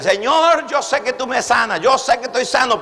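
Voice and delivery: acted believer's prayer. Believer telling the Lord he knows he is healed, acted plea. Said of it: "cuando nosotros no obramos correcto".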